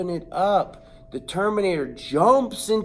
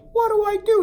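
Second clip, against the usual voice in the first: much higher, louder frantic cry; panicked yell; 7 dB louder, faster than usual. Retold or imitated. The boy yells to his cousin for help, much higher and louder. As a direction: shriek it in panic. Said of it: "I'm like".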